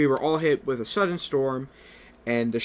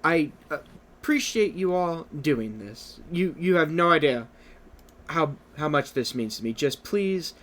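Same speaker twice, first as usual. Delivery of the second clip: Twilight; 2 semitones higher than usual. Acted. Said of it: "Twilight's gonna sigh and go".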